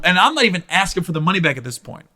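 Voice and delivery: normal talking voice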